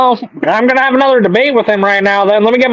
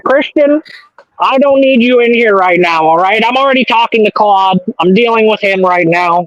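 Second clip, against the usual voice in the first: Bernie Sanders voice; 3 semitones higher than usual. Acted. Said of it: "Is that your best Bernie Sanders?".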